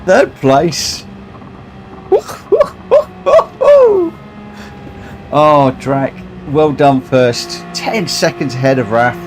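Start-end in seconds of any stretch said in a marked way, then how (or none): 1.1-5.3 high, gleeful burst of laughter; delighted laugh. Real, not acted. Streamer hearing he finished third, gleeful laugh.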